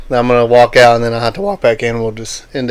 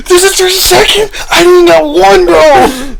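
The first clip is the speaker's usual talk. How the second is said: high mock voice; 7 dB louder, slower than usual. Mock jealous sibling teasing.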